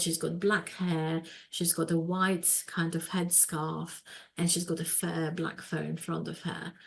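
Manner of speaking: ordinary talk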